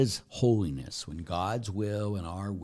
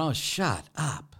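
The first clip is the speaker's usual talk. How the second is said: exasperated God; 6 semitones higher, slower than usual. Retold or imitated. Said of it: "God in heaven sometime went".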